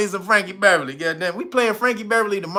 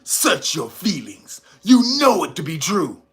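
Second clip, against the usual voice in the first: Darth Vader; 3 semitones lower than usual. Retold or imitated. Acted Vader line.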